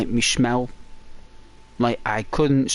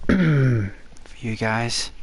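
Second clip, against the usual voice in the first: ASMR voice; much slower than usual. Shown as a demonstration. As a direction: soften into ASMR. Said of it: "A S M R my voice".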